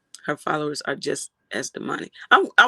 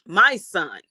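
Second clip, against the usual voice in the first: "My son" pressed a touch louder; stress on my son; 5 dB louder than usual. Shown as a demonstration. Streamer showing chat how she stressed her son. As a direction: lean on "My son" as she did. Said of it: "she put emphasis on "my son".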